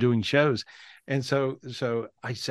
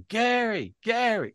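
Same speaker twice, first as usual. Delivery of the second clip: retold real voice calling; 11 semitones higher, slower than usual. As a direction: cry Gary, Gary way up high as he comes back. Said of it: "with his real voice".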